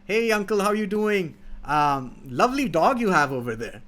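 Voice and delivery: a hint of a sweet-talking trickster; sly friendly hoodlum. Hoodlum greets the old farmer, lightly voiced fake-friendly. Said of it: "and he's like".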